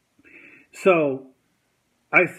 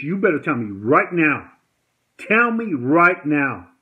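re-enacted threat, slowing and louder on the repeat; retold stern demand; 2 semitones higher, 5 dB louder than usual. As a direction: act out pressing someone for an answer. Retold confrontation, grabbing him by shirt.

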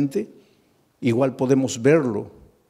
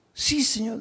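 pitched much higher, rushed yes; hasty eager answer; 10 semitones higher than usual. Acted. Peter rushing to answer Jesus, eager and high.

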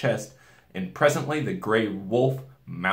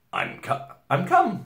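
put-on lightly raised nervous boy voice; 10 semitones higher, 3 dB louder, slower than usual. A narrator's reading. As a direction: stumble in eagerly. Edmund voiced.

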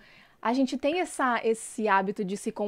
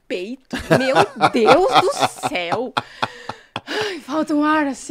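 laughing; 3 semitones higher, 6 dB louder, slower than usual. Real, not acted. Laughing about the cold shower.

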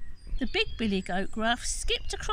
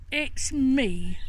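bold goat; 3 semitones higher, 5 dB louder than usual. Acted. Big goat answers.

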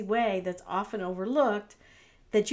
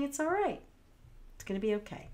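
calm reassurance; 3 semitones higher, 5 dB quieter, faster than usual. Shown as a demonstration. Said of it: "So instead".

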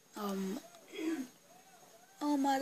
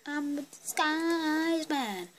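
mock disguised man; 6 semitones higher, slower than usual. Pretending in disguise.

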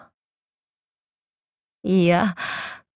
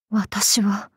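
whisper; 5 dB quieter than usual. Acted. Inner voice speaks.

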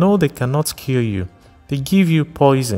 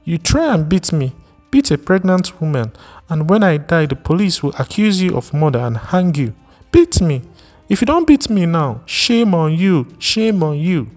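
defiant taunt; 9 semitones higher than usual. Acted. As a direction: goad him to strike, voice cracking high. Wife dares husband to hit her.

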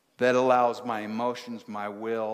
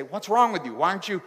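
higher, louder alarmed voices, firing questions; panicked questions; 5 semitones higher, 3 dB louder, faster than usual. Retold or imitated. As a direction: imitate the panicking crowd.

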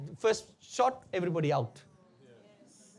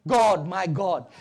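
slow, emphatic cry to God; Jesus crying out; 4 semitones lower, 4 dB louder, slower than usual. Acted. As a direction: slowly cry out from the cross. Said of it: "Then Jesus cried out".

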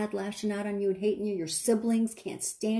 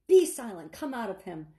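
stern rebuke. Acted. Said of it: "Jesus rebuked them".

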